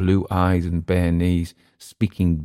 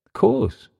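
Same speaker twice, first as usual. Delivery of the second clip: high pitched. Acted. Emile agreeing.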